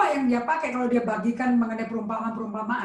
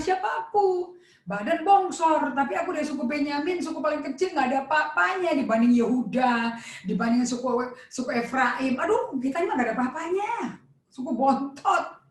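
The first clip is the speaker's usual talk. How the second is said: insecure self-pity. Acted. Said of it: "Ini orang insecure nih".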